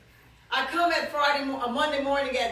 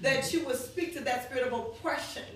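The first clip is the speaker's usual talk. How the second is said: measured, solemn intercessory prayer; retold prayer; 3 semitones lower, 5 dB quieter than usual. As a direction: pray it out in deliberate phrases. Re-enacts the prayer.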